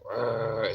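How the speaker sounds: a short rolled dog growl; imitated dog growl. Owner imitating his dog hearing noises outside, growling. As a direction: growl like a sleepy guard dog. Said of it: "he'll growl 'cause he just hears shit".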